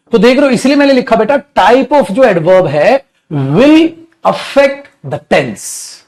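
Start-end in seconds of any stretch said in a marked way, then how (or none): 1.6-5.9 slow dictation. Shown as a demonstration. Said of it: "चलो copy करते रहना बेटा साथ साथ".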